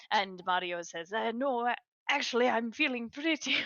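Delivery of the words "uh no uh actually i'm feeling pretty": put-on slightly higher voice with an Italian accent; young man's reluctant answer in an Italian accent. Young man turning down an invitation, Italian accent. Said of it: "I don't know why I did an Italian accent".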